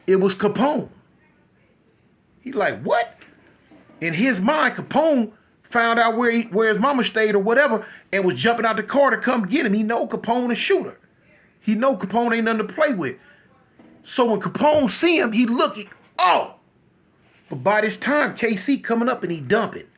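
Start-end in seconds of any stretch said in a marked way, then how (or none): 2.8-3.2 startled, high-pitched what. Acted. KC spotting Capone at his mama's house, startled. 16.2-16.6 alarmed. Acted. Capone reacts on seeing KC.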